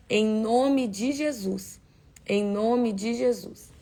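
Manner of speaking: earnest prayer, slowing at the end; closing prayer. Acted. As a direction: pray over the mothers, drawing out the amen lines. (pregadora orando pelas mães, com fervor)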